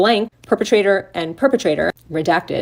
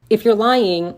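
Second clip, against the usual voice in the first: normal talking voice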